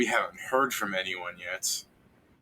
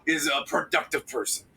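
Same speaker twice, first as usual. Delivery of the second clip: lightly voiced higher warrior lecture; a hint of proud dwarf lecturing; gruff dwarf warrior; 4 semitones higher than usual. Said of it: "he goes".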